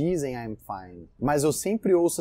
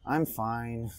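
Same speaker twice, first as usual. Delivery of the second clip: I'm fine said soft, low and dejected; sad, down tone; 4 semitones lower, 5 dB quieter than usual. Shown as a demonstration. Teacher shows a sad I'm fine to students. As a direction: let I'm fine sink, quiet and low. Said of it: "a sua entonação conta muito".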